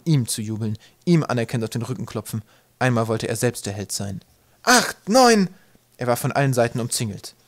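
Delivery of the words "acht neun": high, loud counting shout. Acted. Twig counting during the game, high shout. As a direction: call the numbers out across the field.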